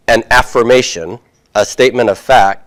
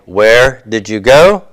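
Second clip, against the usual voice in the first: slow model phrase. Shown as a demonstration. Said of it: "So if I wanna say".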